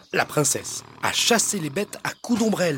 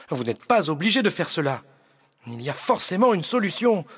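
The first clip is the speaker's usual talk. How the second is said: exclaiming; 4 semitones higher, faster than usual. Acted. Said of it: "Jean-Luc s'exclame".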